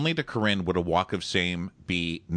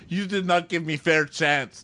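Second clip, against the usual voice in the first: high-pitched mock protest; imitated dumped woman; 8 semitones higher, 3 dB louder than usual. Dumped woman protesting to the bachelor, high mock complaint. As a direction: put on a high, aggrieved woman's voice.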